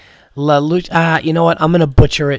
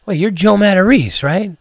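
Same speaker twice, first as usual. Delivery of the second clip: surprised recognition; 6 semitones higher, 3 dB louder than usual. Retold or imitated. Retold fan recognizing a comedian.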